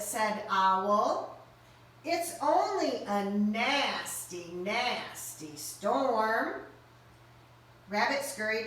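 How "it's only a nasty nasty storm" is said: slow reassuring. Acted. Owl reassuring.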